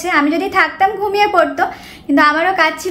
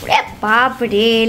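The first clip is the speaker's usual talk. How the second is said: mock fright; 6 semitones lower, much slower than usual. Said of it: "আমি কিন্তু ভয় খাচ্ছি".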